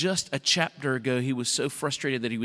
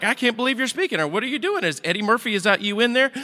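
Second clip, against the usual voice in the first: much higher, hammed-up disbelief; mock astonishment; 10 semitones higher, 5 dB louder than usual. Balaam mock-stunned at his talking donkey. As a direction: play it like you can't believe a donkey talks.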